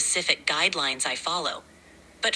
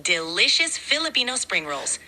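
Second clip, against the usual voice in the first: higher-pitched Bisaya-accented English; 6 semitones higher than usual. Shown as a demonstration. Assistant describing lumpia to amused users, Bisaya accent. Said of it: "All right, I'll try".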